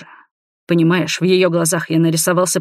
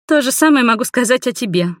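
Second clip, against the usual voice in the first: higher-pitched, indignant female comeback; mildly venomous young woman's voice; hissing retort; 7 semitones higher, 3 dB louder than usual. A narrator's reading. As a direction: throw it back with offended spite. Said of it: "зашипела девушка".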